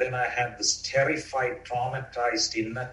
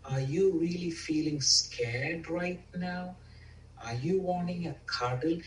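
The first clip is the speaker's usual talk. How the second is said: soft, tender coaxing question; talking to a toddler; 4 semitones higher, 5 dB quieter than usual. Retold or imitated. Loving parent soothing the scared inner child, soft and tender. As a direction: ask softly, as to a three-year-old. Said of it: "like talking to a three-year-old".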